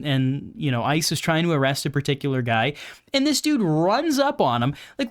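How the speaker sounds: ordinary talk, nothing marked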